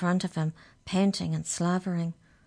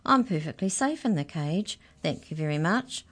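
cheerful mouse. Acted. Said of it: "same infuriating, cheerful voice".

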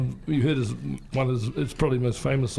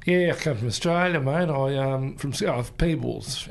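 Australian accent. Shown as a demonstration. Radio host showing off his Australian accent on request, hammed-up Australian. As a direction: put on a Scottish-born Australian's accent. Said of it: "I'd do an Australian accent".

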